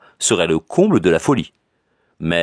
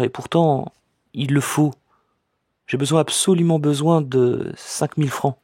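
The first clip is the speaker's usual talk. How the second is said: put-on higher, hesitant young woman's voice; troubled cousin; 8 semitones higher than usual. A narrator's reading. Cousin asks her cousin for money, higher and troubled. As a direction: voice the embarrassed cousin asking for money. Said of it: "elle me dit".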